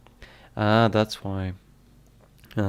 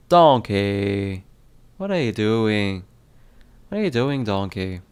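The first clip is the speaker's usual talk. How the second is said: lightly voiced ogre with an accent, loud first call; attempted brogue, calling out the first word; Shrek; 4 dB louder than usual. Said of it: "I believe Shrek is more aggressive Irish accent".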